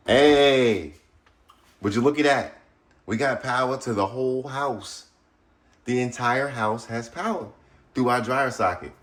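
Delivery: loud, high, celebratory; excited triumph. Real, not acted. Host showing viewers the house has power, excited triumph. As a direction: crow about it with pitch lifted.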